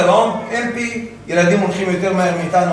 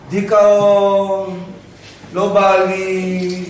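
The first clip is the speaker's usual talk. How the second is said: listless depressed drone; much slower than usual. Acted. Slow depressed voice of apathy.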